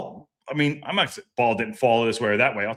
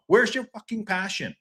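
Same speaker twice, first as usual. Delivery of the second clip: higher, incredulous demand for passion; exasperated outburst; 6 semitones higher than usual. Real, not acted. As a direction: throw the question at the players. Ranting about team's lack of passion.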